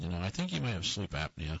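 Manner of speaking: ordinary talk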